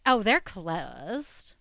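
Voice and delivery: slow, bored "Oh, they're closed"; flat bored clerk. Retold or imitated. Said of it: "is the way she said it".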